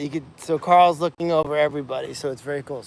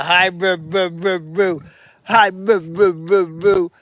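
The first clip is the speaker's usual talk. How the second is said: calling the pig; 2 semitones higher, 5 dB louder, slower than usual. Real, not acted.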